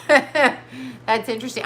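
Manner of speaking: laughs, then says it slowly; amused, drawn-out repeat; laughing. Shown as a demonstration.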